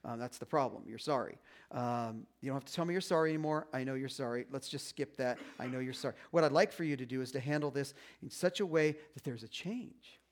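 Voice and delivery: a gentle, tired God setting things straight; voicing God. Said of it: "And God's going".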